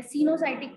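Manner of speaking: सिनोसाइटिक with its first O left silent. Shown as a demonstration. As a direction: show how सिनोसाइटिक reads, opening "see-no". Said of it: "वो इसमें silent है".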